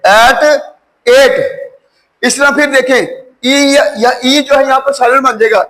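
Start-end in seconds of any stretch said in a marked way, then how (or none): 0.1-1.6 एट repeated with a full long a, like "ate"; long a sound. Shown as a demonstration. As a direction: drill एट as "ate" with the full vowel. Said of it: "ए पूरी sound आएगी".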